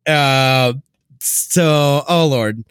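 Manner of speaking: usual speaking voice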